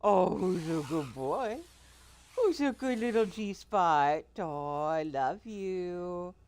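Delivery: squeaky praising a dog. Real, not acted.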